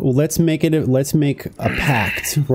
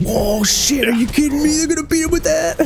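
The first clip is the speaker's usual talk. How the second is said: high, incredulous buddy voice; imitating a stunned friend, much higher; buddy's excited disbelief. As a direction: squeal it like you can't believe it. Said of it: "he was like".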